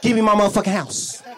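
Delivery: high, loud mock yell at the ex-wife; dad yelling back. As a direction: bark it back, refusing.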